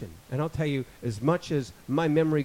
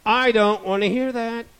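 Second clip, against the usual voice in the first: stern parent; 8 semitones higher, 8 dB louder than usual. Retold or imitated. Parent scolding a young child.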